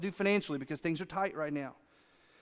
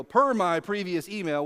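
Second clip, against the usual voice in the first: passive-aggressive; 4 dB louder than usual. Retold or imitated. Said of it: "passive-aggressive thing".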